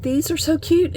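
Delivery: gushing over tiny charms; cute squeal. Real, not acted. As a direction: squeal it out in delight.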